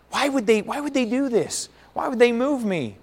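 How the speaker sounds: a touch of retold indignation; mock indignant. Coach recalling his anger at the transfer, mildly indignant. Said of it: "I was so angry".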